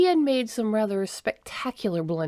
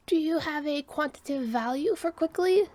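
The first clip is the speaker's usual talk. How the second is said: a higher, pointed query; pointed question; 8 semitones higher than usual. Acted. Second Sister pressing Listens to the Winds for a number, pointed. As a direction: press him for an exact number. Scientist demands an exact figure.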